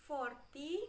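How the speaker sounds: "forty" with the weight on for; FOR-ty, shown carefully; first-syllable stress. Shown as a demonstration. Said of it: "It is on the first ability to".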